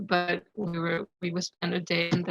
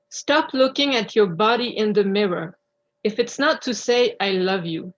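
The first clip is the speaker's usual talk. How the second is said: measured recitation with clear pauses between phrases; deliberate spoken-word delivery, line by line; articulate poem reading. Real, not acted. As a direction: read your own poem aloud, carefully articulated. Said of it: "articulate well and speak loud".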